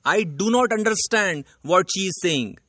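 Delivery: the corrected example read out very slowly; slow corrected sentence. Shown as a demonstration. Teacher slowly reading out the correct sentence to the class. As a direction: lay out each word of the right sentence slowly. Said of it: "सही sentence बनेगा".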